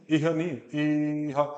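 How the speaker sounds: इह said short, then इह with a longer vowel; wrong and right इह. Shown as a demonstration. Teacher contrasts the two इह. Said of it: "ए बड़ा है ना".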